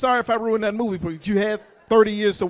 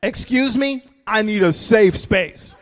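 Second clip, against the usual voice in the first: put-on kid voice; 3 semitones lower, 7 dB louder, slower than usual. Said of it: "I'm like".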